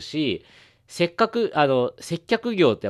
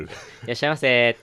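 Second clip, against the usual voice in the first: shop clerk greeting. Shown as a demonstration. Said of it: "いろんなね、トーンから".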